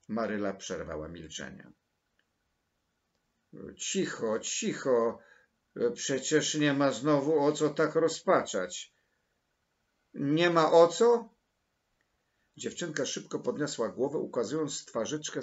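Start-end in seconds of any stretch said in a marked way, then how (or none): 3.8-8.9 louder, higher reproof; brisk hushing. A narrator's reading. Maryla tells the sobbing girl to stop, brisk reproof. 10.1-11.3 loud, high, drawn-out question; indignant disbelief. A narrator's reading. Sobbing girl challenges Maryla, indignant disbelief.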